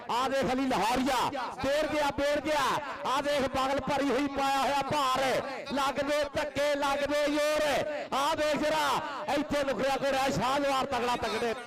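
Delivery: excited commentary. Real, not acted. Live raid commentary, excitement.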